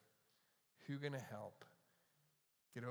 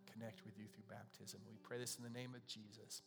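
prayer; 2 semitones lower than usual. Real, not acted. Prays before communion.

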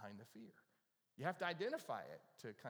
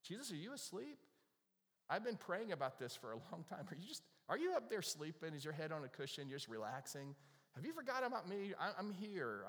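pleading prayer; 5 semitones higher than usual. Retold or imitated. Pastor voicing a believer crying out to God, pleading. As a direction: cry out like someone feeling forgotten. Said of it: "you cried out to God and you go".

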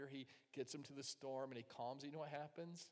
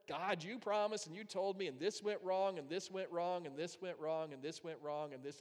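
whiny complaint; 3 semitones higher, 5 dB louder than usual. Retold or imitated. Complaining prayer to God.

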